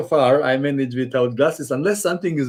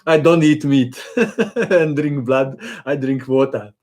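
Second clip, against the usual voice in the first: laughing. Real, not acted. Joking he is not Dracula.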